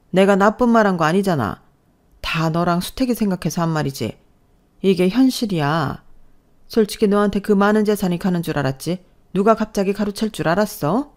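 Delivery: lightly acted self-justifying elder; scornful mother-in-law. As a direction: press the point with mild disdain. (은근히 빈정대는 시어머니)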